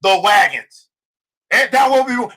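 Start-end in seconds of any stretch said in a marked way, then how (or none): 0.0-0.9 slow, weighty call to action; telling a friend it's time to move; slow declaration. Retold or imitated. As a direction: lay each word down slowly. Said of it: "I said".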